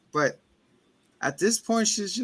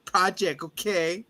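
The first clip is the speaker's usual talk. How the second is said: much higher, whiny overwrought voice; melodramatic son; 5 semitones higher than usual. Retold or imitated. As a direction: play it like a telenovela tantrum. Son's melodramatic outburst.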